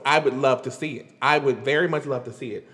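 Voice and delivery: Mo'Nique. Acted. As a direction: lightly imitate a comedian, pitched low. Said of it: "in my Monique voice".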